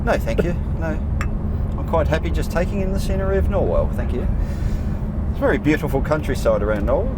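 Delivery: polite English gentleman declining the paper; posh English accent. Pretend. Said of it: "I should put on my English accent".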